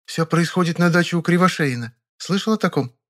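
put-on a young woman sharing news; girlish, chatty Vera; Vera chatting. A narrator's reading. Vera's voice.

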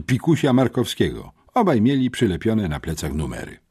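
high-pitched, pleading, overwrought teacher; wzburzona nauczycielka. A narrator's reading. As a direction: beg for help at your wits' end. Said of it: "wpadła wzburzona pani Gipkowska". (wzburzonym, błagalnym głosem)

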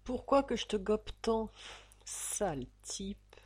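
soft, breathy whisper with lips forward; whispered endearment. Acted. Tipsy Fifine whispering a tender insult to her lover. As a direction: breathe it close to his ear. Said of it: "lui susurra-t-elle".

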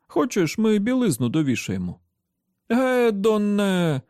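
put-on high-pitched child; child's voice. A narrator's reading. Children calling out in the yard, high-pitched.

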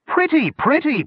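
very high whining goblin plea; a goblin begging to keep the gem; goblin protest. A narrator's reading. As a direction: whine over a shiny stone. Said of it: "protested Warty".

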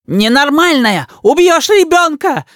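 high, slow shouted alarm; shouting. A narrator's reading. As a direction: cry out and rush at her. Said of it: "с криком".

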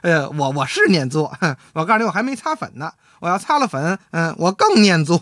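chuckling, flattered boast; acted giggly self-satisfaction; delighted wife. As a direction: play the pleased wife preening between little laughs. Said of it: "他媳妇儿高兴了".

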